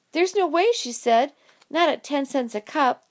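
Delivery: high, loud astonished protest; can't believe what she's hearing; stunned disbelief. Acted. Jessie disbelieving her brother's profit, high and loud.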